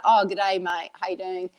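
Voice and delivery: lightly put-on Australian greeting; useless Australian accent. Speaker imitates a habitual greeting in Australia, hint of Aussie accent. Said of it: "That's my useless ... accent there".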